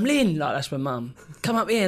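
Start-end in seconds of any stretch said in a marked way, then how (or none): 0.0-0.4 calling loudly up the stairs; shouting a name. Retold or imitated. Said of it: "he shouts out". 1.4-1.9 calling out. Retold or imitated. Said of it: "he shouts out".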